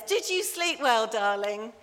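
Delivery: a bright morning question to her husband; Mummy Bear. Acted. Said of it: "And Mummy Bear says".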